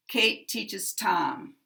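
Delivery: Tom longer and stronger, sliding down at the end; slow demo sentence, main stress on Tom. Shown as a demonstration. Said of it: "Tom is going to get the maximum".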